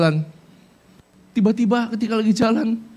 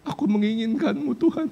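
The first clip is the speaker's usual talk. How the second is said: much softer, intimate whisper of a prayer; 7 dB quieter than usual. Pretend. Preacher modelling a soft intimate prayer to God. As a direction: breathe it to God gently. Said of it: "Kapan terakhir kali kamu ngelakuin".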